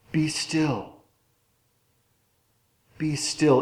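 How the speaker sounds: soft, unhurried and soothing; gentle hush. Retold or imitated. God hushing his people, soft and soothing. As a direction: hush them softly, like calming a child. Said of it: "It's exactly the same as our word hush".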